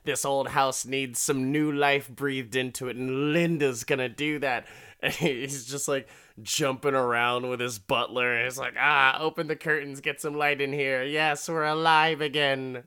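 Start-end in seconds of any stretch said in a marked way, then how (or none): 0.0-4.7 lightly acted giddy lovestruck declaration; playful imitation of an excited old man; mock excited. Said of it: "he just gets all excited". 8.8-12.8 higher, giddy retold exclamations; hammed-up burst of joy; mock excited. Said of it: "he just gets all excited".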